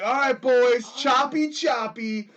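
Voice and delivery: loud, high coach call; coach barking drills. Retold or imitated. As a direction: bark the drill like a football coach. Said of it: "we'd be like".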